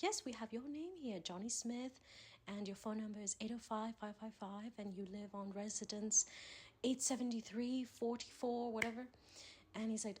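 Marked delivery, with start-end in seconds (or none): 0.0-9.1 put-on English accent. Prank caller confirming the victim's details, English accent. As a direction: read out the details in mock English. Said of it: "do the best English accent".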